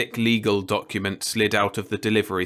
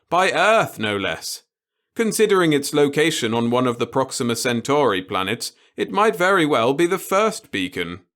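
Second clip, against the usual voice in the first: put-on gleeful old boss; 4 semitones higher, 4 dB louder than usual. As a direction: savour every word of it. The boss voiced in story.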